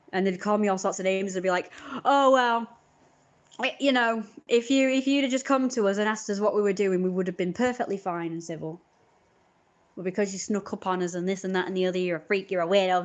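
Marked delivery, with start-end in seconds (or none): 2.1-13.0 mock civil teen. Teens voiced feigning civility.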